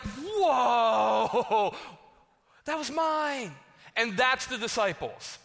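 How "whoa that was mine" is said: loud, high, hammed-up indignation; outraged protest. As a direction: cry out as if robbed of your prize. Acts outrage at brother stealing plan.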